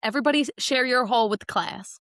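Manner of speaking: lightly mimicked Southern hostess addressing the table; playful mock-Southern call to the group; Southern accent. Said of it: "started immediately talking in a Southern accent".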